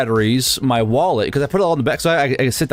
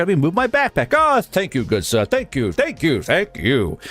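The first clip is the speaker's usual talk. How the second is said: lightly voiced courteous gentleman; mock Victorian politeness; 3 semitones higher than usual. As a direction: exaggerate the good manners with lilting thanks. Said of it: "Victorian era of England".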